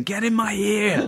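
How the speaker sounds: high, slow, coaxing squeak; a man pampering a polystyrene wife, high and slow; high silly voice. Retold or imitated. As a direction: coo it up high to the tiny wife. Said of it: "he's going".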